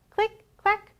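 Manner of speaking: high, bouncy click clack; typewriter clicks. A narrator's reading. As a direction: tap it out like keys. Typewriter refrain, ducks.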